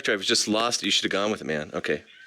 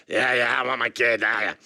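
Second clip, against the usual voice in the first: mock voice. Shown as a demonstration. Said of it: "talking like this".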